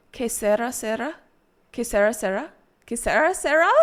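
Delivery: "Que sera, sera" as kay SEH-ra SEH-ra, unrolled r; gringo Spanish attempt. Shown as a demonstration. Streamer failing to roll R's, tentative gringo SEH-ra. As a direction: practise "sera" with stress on SE, questioning. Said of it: "I sound like a fucking gringo".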